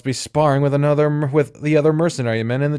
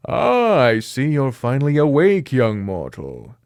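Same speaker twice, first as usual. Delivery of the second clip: smug snake demon. Acted.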